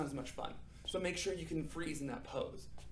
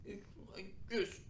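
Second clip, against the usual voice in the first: softer, squeezed into a tiny snail face; squeezed small voice; 3 semitones higher, 5 dB quieter, slower than usual. Shown as a demonstration. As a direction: shrink the voice along with the face. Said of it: "make your face as small as you can".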